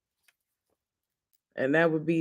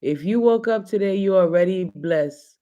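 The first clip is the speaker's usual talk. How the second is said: imitating Amber. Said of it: "She would say this to me all the time".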